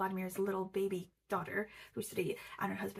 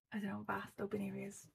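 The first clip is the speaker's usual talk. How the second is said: whispered aside; 6 dB quieter than usual. Real, not acted. Dreamy aside about open landscapes.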